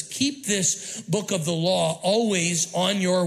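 slow, drawn-out line left hanging for the crowd; slow scripture prompt. Shown as a demonstration. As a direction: stretch "Keep this book of the law always on your" and stop before the last word. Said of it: "what? Come on, on your".

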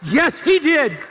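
high, full-voiced comic outrage; outraged yelling. Preacher telling crowd of his roommate's kiss, outraged shouting. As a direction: holler the story in mock horror.

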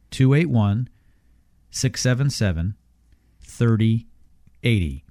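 slow, each digit spaced out; slowly. Shown as a demonstration. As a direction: say it slowly, pausing between groups. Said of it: "One more time slowly".

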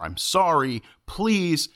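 high, spaced-out courtesies; nice and clear. Shown as a demonstration. Moviegoer shows how to be nice before a fight, polite and clear. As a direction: say each courtesy clearly for all to hear. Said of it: "you're nice about it and you're clear".

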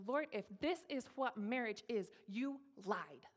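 forceful retold anger, heavy on each word; angry at God. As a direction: accuse God with restrained anger. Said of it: "angry at God".

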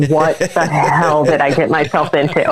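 slow, laughing what-the-hell; slow, laughing worry about what she's walked into; laughing disbelief. Retold or imitated. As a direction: say it through a laugh. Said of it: "I'm like".

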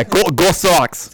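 slow, broad Boston vowels; Boston accent. Pretend. Co-host echoing the cheer, broad Boston accent. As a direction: draw out a mock Boston cheer. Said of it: "Whenever I think Boston".

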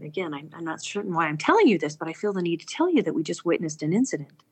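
fast, insistent repeat of the confession; pushing on regardless. Retold or imitated. To the stranger, insisting on telling again, quickly. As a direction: rush through it before he stops you. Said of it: "I just kind of override him".

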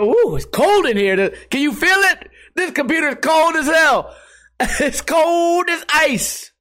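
high-pitched, drawn-out hooting excitement; excited delight. Retold or imitated. Streamer marvels at his newly cooled computer, hammed-up delight.

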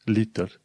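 "litter" with a true T; clear T. Shown as a demonstration. Teacher giving examples, "litter" with clear T. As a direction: sound the T in "litter". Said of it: "T-ul se pronunță T".

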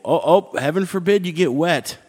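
sarcastic tease. Retold or imitated. Teasing people flinching at droplets.

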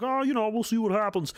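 high, limp mock shrug of a voice; mock the soldier who just waits to see; mock timid. Mocking a passive soldier, lazy and unbothered. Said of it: "you can't be like".

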